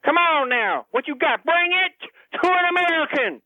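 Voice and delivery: goading, rising to a high finish; taunting challenge. Acted. J C daring the French caller to answer back, taunting. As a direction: egg him on to fight.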